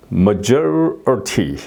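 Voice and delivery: majority said very slowly, ty as a schwa; slow demo. Shown as a demonstration. Teacher modelling majority slowly. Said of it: "이티가 아니고 이게 어가 되는 거예요".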